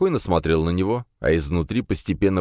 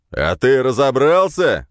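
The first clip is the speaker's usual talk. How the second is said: slow, loud, higher bark; 8 semitones higher, 7 dB louder, slower than usual. A narrator's reading. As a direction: snap at the young officer. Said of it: "гаркнул на него усач".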